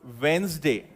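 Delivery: वेंसडे as "wenz-day", slowly and softly; correct pron. Shown as a demonstration. Teacher spelling it as it sounds: वेंसडे, wenz-day. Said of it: "अगर मैं उसको लिखूं तो वो ऐसा होगा".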